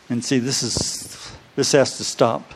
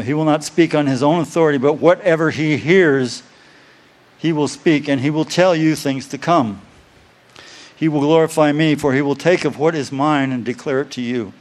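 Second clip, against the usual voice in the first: scripture reading; 3 semitones higher than usual. Acted. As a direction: read each phrase out to the church. Reads scripture aloud to congregation.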